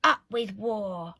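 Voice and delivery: slow, mildly shouted war chant; understated storybook shout. A narrator's reading. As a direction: chant it slowly as a slogan. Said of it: "And they shouted".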